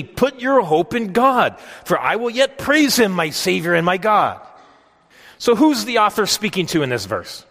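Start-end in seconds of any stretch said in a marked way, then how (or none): 0.0-4.4 hopeful reading. Acted. Reading the psalm's refrain.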